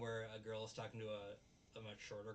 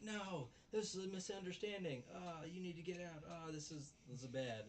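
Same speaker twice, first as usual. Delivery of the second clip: lightly voiced flustered girl; 7 semitones higher than usual. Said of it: "She's like".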